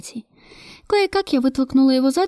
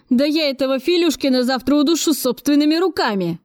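furious yell, performed; 5 semitones higher than usual. A narrator's reading. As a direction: rage at an absent culprit, volume held back. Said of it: "Вне себя от ярости заорал Кравцов". (сыгранная ярость, сдавленный крик)

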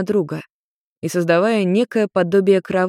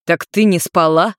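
indignant; 4 dB louder than usual. Acted. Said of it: "возмутился Йен".

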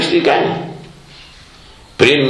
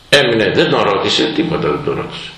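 ordinary talk

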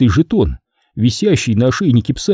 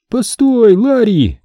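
calling out; 10 semitones higher, slower than usual. A narrator's reading. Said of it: "послышался мамин голос".

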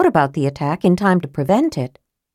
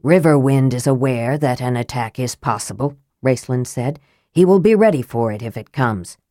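Raistlin's low voice; 5 semitones lower than usual. Acted.

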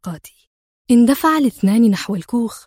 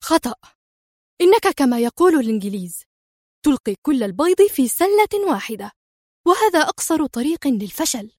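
higher, irritated lecturing; nervous outburst; 4 semitones higher than usual. Acted. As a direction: scold him, rising in pitch. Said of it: "صاحت في عصبية".

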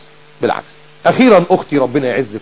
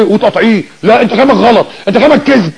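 higher-pitched cross retort; scowling contradiction; 5 semitones higher than usual. Acted. Scowling wife cutting off her husband, crossly accusing. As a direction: play a wife snapping back in mock annoyance. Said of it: "قاعده بقى مكشره".

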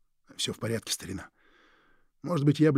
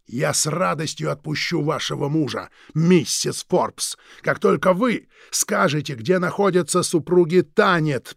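snarling demand, louder at the end; growled; 3 semitones higher, 5 dB louder, slower than usual. Acted. Krieg demanding the Thanets' whereabouts from Louise, snarled. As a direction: force it out as a threat. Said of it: "прорычал Криг".

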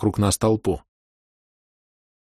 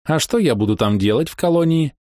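cheerful question; 8 semitones higher than usual. A narrator's reading. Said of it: "спросила весело".

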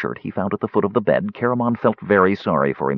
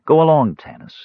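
firm, raised command; 8 semitones higher, 5 dB louder than usual. A narrator's reading. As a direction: send him off firmly. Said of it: "she said firmly".

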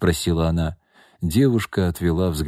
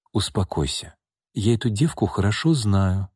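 calm. Acted. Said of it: "спокойно ответила Настя".

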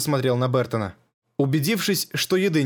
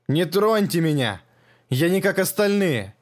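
frightened pleading; 4 semitones higher than usual. Acted. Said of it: "Дрожа от страха".

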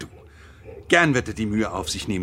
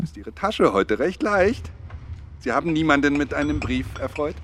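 forced cheer; 5 semitones higher than usual. Acted. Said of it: "den heiteren Ton aufrecht zu erhalten".

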